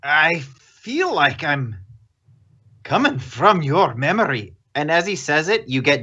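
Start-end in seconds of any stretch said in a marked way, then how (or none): 0.0-4.5 Horace. Acted. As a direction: feel out the words in a Scottish accent. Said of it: "how do you do a Scottish accent".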